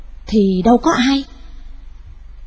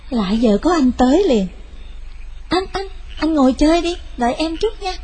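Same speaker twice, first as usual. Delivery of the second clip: put-on cheerful young woman voice; 4 semitones higher, 4 dB quieter than usual. Lan's sister greets Thân.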